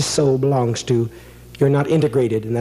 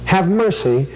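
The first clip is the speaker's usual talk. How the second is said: a pleading spirit, pitched higher, coming through the medium; channeled spirit voice; 5 semitones higher than usual. Acted. Spirit pleading to the medium, lightly voiced higher. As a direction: beg for mercy as a voice not your own.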